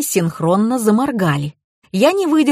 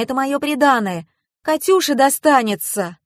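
higher-pitched indignant wife; 6 semitones higher than usual. A narrator's reading. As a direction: protest in a raised pitch. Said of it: "возмутилась Таня".

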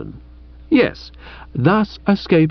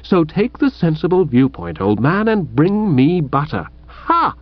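scoffing retort; 4 semitones higher than usual. Acted. Bertie's ha-ing retort, high pitch.

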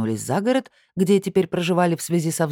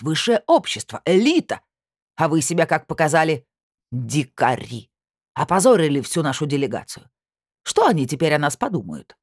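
put-on indignant old lady; 3 dB louder than usual. Aurora's indignant tirade voiced.

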